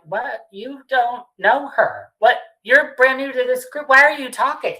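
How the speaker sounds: high-pitched mock disbelief; imitated incredulity, climbing in pitch; incredulous retort. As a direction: act out someone indignantly questioning a newcomer. Retelling Lala's reaction in the car.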